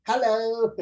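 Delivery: high Singlish hello; lilting Singaporean hello; Singaporean accent. Retold or imitated. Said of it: "Very Singlish".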